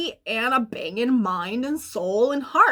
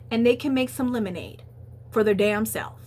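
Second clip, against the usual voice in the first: sassy talk. Pretend. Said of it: "I don't know why I'm talking like that".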